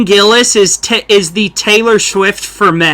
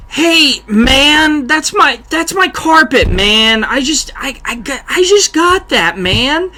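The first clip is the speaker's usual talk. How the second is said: high, laid-back dude drawl, much higher pitch; Jeff Bridges; 5 semitones higher, slower than usual. Retold or imitated. Guy showing friends his Jeff Bridges, high and laid-back. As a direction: play the mellow Dude, pitched way up. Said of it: "I pulled a Jeff Bridges impression".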